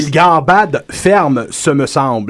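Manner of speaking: slow, mannered commentator voice; posh commentator. Acted. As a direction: comment like a stuffy aristocrat.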